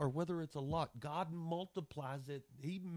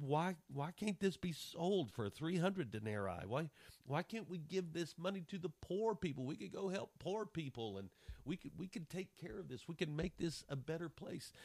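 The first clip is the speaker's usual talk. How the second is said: a touch of grumbling complaint, pitched up; mock frustrated disciples; 5 semitones higher than usual. Preacher mimics the frustrated disciples, mild mock grumbling. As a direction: lightly voice the annoyed disciples. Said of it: "They were aggravated. They were frustrated".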